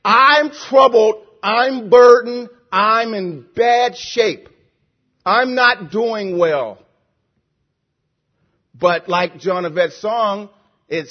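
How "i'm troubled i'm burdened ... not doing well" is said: loud, slow, heavily drawn-out lament; troubled lament. Retold or imitated. Preacher voicing a burdened psalmist, loud troubled lament. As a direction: stretch each admission out under a heavy burden. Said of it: "This man is saying, "I'm troubled".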